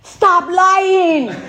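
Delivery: loud, high blunt command; old man getting in his face, loud stop lying; in-your-face order. Retold or imitated. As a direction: bark it right in his face. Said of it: "he gets all in my face".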